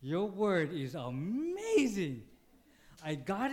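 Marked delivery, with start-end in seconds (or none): 0.0-2.2 loud, slow awed wow; amazed praise. Retold or imitated. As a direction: marvel at God's word. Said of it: "And I was like".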